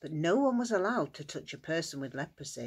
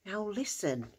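softer, confiding tone; hushed; 3 semitones higher, 6 dB quieter than usual. Acted. Jesus to the healed man, hushed. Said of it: "whispered Jesus".

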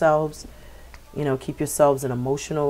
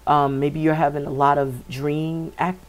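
hiccups. Real, not acted. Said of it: "I got the hiccups".

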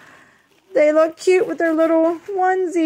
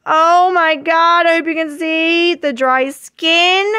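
amazed delight; 3 semitones higher, 4 dB louder than usual. Real, not acted. Vlogger showing the doll's dry skin, amazed delight.

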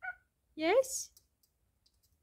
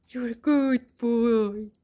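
slow praise; 2 semitones lower, 5 dB louder, much slower than usual. Real, not acted. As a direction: stretch every word out. Praising the dog, drawn out.

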